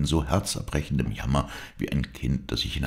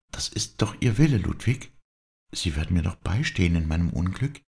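put-on higher young woman, joyful and overwhelmed; a girl pouring out her confession, pitched higher; higher tremulous young woman confessing; Dorette's voice; 6 semitones higher than usual. Dorette pleads for support.

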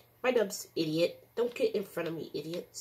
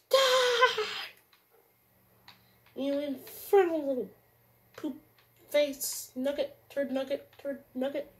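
high, loud stream of insults; raging yell; 8 semitones higher, 8 dB louder than usual. Real, not acted. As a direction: rant at the enemy at the top of your voice. Raging insults at game enemy.

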